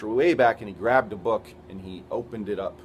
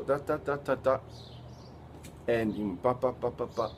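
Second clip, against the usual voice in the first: slow reading imitation; 4 dB quieter than usual. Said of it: "he went kinda slow".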